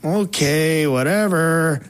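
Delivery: imitating a dismissive teen, drawn out; mock a skeptical giggle without really laughing; giggly brush-off. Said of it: "she just kinda laughed and, like, giggled, like".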